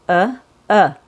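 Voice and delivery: weak neutral uh; schwa demo. Shown as a demonstration. Teacher showing the schwa in Alaska. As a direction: breathe out a short uh. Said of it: "push the air out".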